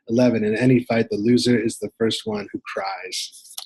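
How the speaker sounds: emphatic numbered rule-reading, each number punched; list read aloud. Acted. Reader reciting the unofficial rules of fisticuffs, emphatic list reading. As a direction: read out rules one by one, lifting each opening.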